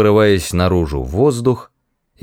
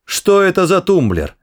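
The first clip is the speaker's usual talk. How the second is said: wailing; 10 semitones higher than usual. Acted. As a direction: yell it in mock panic. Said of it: "возопил он".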